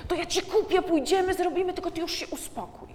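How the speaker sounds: put-on a parent begging the child to calm down with promises; pleading promise. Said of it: "i obiecujemy coś". (rodzic błagalnie obiecuje dziecku nagrody, wyżej i głośniej)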